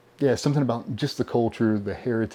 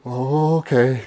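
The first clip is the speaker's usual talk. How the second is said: tag; 3 semitones higher, 5 dB louder, much slower than usual. Retold or imitated. Retold suspense during the draft.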